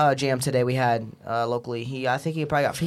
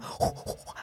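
soft, airy monkey hoots; half-hearted monkey imitation; monkey sound; 11 dB quieter than usual. Shown as a demonstration. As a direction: hoot softly like a monkey. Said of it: "how you know the monkey sound".

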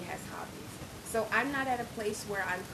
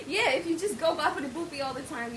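laughing; 4 semitones higher than usual. Shown as a demonstration. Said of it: "you actually sound like you're speaking Italian".

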